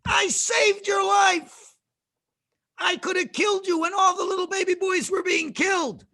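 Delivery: indignant reproach. Acted. Pharaoh's daughter scolds Moshe over her father's house, indignant and high. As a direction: berate someone for their ingratitude.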